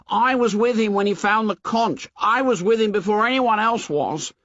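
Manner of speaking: put-on high, plaintive boy voice; insist, hurt and left out; Piggy voice. A narrator's reading.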